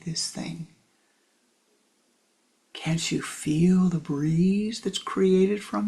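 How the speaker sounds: whispered, wondering blind man feeling the beast; hushed blind man. Acted. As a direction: hush it like groping in the dark. Blind men touching elephant.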